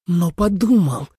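slow, hissing reproach; hissed accusation. A narrator's reading. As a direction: hiss it at him, offended. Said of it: "зашипела Суэлань". (прошипеть медленно, с обидой)

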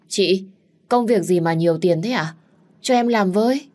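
cao và to, háo hức; tò mò hỏi. Acted. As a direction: nhao lên hỏi chị đầy tò mò. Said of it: "tò mò hỏi". (em gái háo hức hỏi chị)

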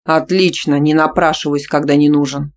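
loud, curt; offended. Acted. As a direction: spit it out, leaving. Boyfriend leaves offended.

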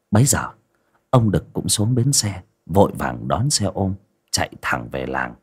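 measured ghost-story narrator with dramatic pauses; storyteller setting a grim village scene; story narration. A narrator's reading. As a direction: narrate it phrase by phrase, pausing between.

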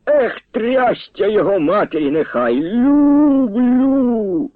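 exclaiming high and joyful, Люблю soaring; an old man bursting out with delight; gleeful shout. A narrator's reading. Old grandpa shouts his joy at the dance. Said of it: "з виляском якось вигукнув".

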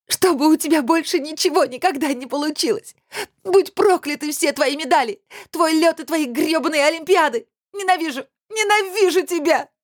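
very high, hysterical cursing scream; screamed curses. Acted. Heroine screams curses at Kir's medals, hysterical. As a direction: curse everything he has, screaming. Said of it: "Я кричала".

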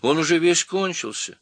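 high, loud complaint; squeaky monkey dismay; disappointed monkey. A narrator's reading. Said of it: "разочарованно сказала мартышка".

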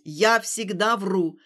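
loud, slow, hammering yell; angry shouting. Acted. Stas shouting his confession at Alina in the street. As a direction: pound out each phrase in rage.

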